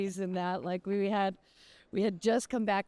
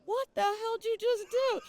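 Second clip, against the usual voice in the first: retold angry husband. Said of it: "he's just looking at me going".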